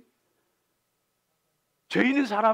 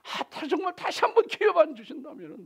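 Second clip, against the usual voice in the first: bargaining plea; 4 semitones higher than usual. Retold or imitated. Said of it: "뭐 이러면서 바게닝 들어가는 거예요".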